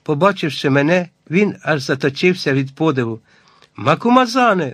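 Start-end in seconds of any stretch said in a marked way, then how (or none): 3.8-4.7 high-pitched cry of recognition; excited exclamation. A narrator's reading. Hunter spots his old acquaintance, excited exclamation. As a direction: call out the name in high excitement. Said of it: "вигукнув він".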